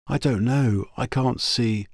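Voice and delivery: put-on young woman voice. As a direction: voice the girl brightly. Girl answers, shaking head.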